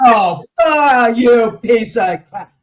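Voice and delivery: loud, high laughing shout of disbelief; cracking up and yelling at the TV; laughing outburst. Real, not acted. Watching the psychics' act on TV, laughing loud outburst.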